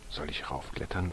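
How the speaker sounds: put-on small boy asking softly; quietly. A narrator's reading. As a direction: ask timidly, barely above a breath. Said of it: "fragte Marco leise".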